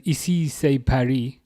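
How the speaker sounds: a touch of French accent on Ici c'est Paris; light French accent. Real, not acted. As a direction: say it lightly the French way, not overdone. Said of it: "I said that with a little French accent".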